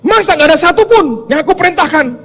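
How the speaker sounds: God can't believe it; incredulous God. Retold or imitated. God asking the angels in disbelief, high incredulous. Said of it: "Tuhan berkata".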